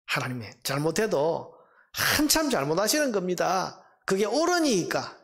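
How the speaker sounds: Habakkuk. Acted. Prophet objecting to God's plan, indignant protest. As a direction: argue with God, pressing each accusation. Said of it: "이 항의에 대해서 하나님의 대답이".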